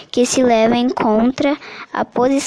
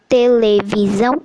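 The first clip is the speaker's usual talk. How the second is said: "televisão" split te - le - vi - são; "televisão" in measured, separated syllables. Shown as a demonstration. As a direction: sound out each syllable of "televisão". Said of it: "a divisão silábica como este".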